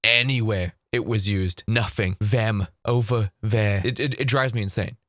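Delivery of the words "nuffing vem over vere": NOTHING, THEM and THERE with F and V for TH; dropped TH. Retold or imitated. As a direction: imitate Danny's F syndrome on NOTHING, THEM, THERE. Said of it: "he would drop the T H".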